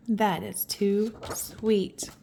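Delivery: slow, soft whispered aside. Real, not acted. Reader whispering how sweet the ending is. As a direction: breathe it out tenderly.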